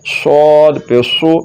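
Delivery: slow स्वाद पेश सु with a thick dark s; full, heavy saad. Shown as a demonstration. Teacher showing saad against seen, heavy saad. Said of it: "स्वाद को पुर यानी कि मोटा करके".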